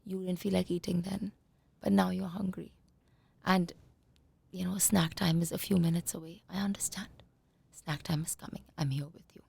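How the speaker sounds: soft whispered reassurance; tender hushed parent voice; loving whisper. Shown as a demonstration. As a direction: whisper comfort to a hungry child. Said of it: "and do it with love".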